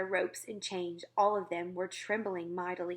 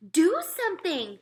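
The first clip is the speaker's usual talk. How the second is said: higher, louder desperate cry; girl crying out; 10 semitones higher, 8 dB louder than usual. Acted. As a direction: beg the giant to act, loud. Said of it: "she cried".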